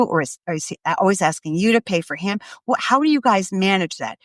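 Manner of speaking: easygoing, offhand asking; nonchalant, casual questions. Shown as a demonstration. Parent casually quizzing daughter about her boyfriend, nonchalant. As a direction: ask lightly, as if it's no big deal. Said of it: "Very nonchalantly, very easily".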